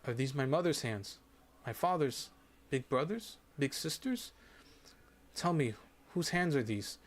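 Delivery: put-on a dying girl's happy questions; joyful. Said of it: "she asks joyfully".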